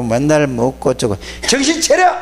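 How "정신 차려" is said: high, sharp rebuke to wake people up; scolding shout. Real, not acted. The preacher scolds his lazy listeners, a high sharp shout. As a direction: snap them awake, pitch way up.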